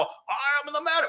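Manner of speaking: slow, high imitation of a heavy German accent. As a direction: mimic an immigrant's heavy German accent, slowly. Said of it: "he would say in this very heavy accent".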